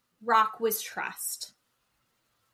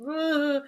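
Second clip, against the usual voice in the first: imitated tearful groan; mock crying groan; 3 semitones higher than usual. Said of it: "She's, like, crying".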